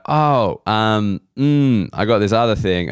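imitating a hesitant, apologetic flight attendant; mock awkward apology, halting; apologetic staff. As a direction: stall with awkward ohs and mms. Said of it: "the Qantas people apologize to me".

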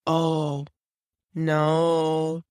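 put-on low, drawn-out child's reply; lightly voiced eerie little girl; a hint of an ominous child; creepy little girl.

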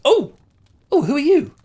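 put-on eight-year-old girl startled by a tiefling; startled little girl. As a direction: gasp like a small girl seeing a stranger.

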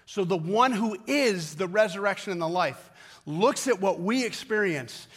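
loud, high, driving sermon voice; preaching at full force. Acted. Pastor drives home a point to the congregation, full-force preaching. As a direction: preach it hard to the room.

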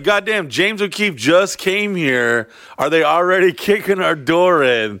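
high, drawn-out mock alarm; retold alarm. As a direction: act out a startled, worked-up first reaction. Acting out his alarmed first thought.

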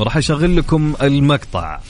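normal talking voice

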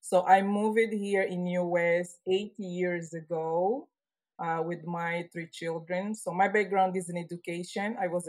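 Portuguese-tinged Angolan accent. Real, not acted. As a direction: speak English with an Angolan accent. Guest from Angola speaking English.

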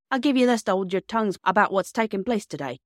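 a hint of a gruff bargainer; lightly voiced signalman. Signalman offering children hush money, lightly voiced character.

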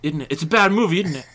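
hammed-up Cockney film star; Michael Caine. Playing the actor reviewing his own movie, mock-Cockney. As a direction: put on an English actor judging his film. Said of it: "we're just talking about Michael Caine now".

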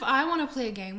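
put-on whiny, childish complaining tone; whiny baby. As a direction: whine it like a little baby. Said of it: "sounds like a whiny little baby".

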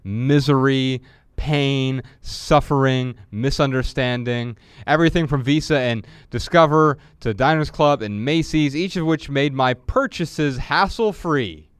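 measured book reading voice; reading from his book. Acted. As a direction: read the passage aloud, deliberately. Reads his book aloud.

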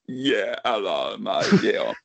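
gruff Spitting Image puppet. Pretend. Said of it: "This is like spitting image".

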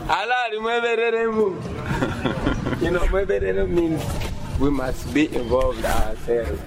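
poor field recording; crackly on-location audio; low quality stream. Real, not acted. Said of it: "I have to apologise for the sound quality".

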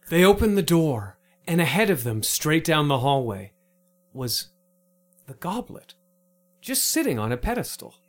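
storyteller unveils the treasure; suspense narration. A narrator's reading. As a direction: build suspense toward the goblet. Narrates reveal.

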